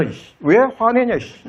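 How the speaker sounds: mock combative retort, pitch jumping up; retold angry comeback. Wife fighting back at her angry husband, mock angry. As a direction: act out squaring up to a spouse. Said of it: "남편이 옛날에 막 화낼 때는".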